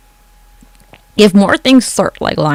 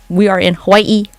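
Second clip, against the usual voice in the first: white-person Hawaii; 2 semitones higher than usual. Shown as a demonstration. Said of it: "one of those white people who say it the whole time".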